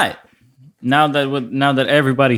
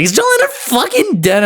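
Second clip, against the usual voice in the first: imitating the caller. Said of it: "they're like".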